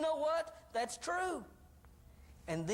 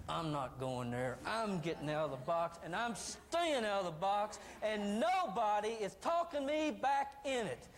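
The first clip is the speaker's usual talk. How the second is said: growing defiance. Acted. Voices a defiant listener's resolve.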